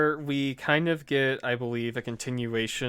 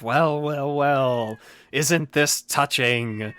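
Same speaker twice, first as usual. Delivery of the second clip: lightly imitated film villain, drawing out the end; a hint of a mocking, theatrical villain; Heath Ledger Joker; slower than usual. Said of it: "a Heath Ledger Joker voice".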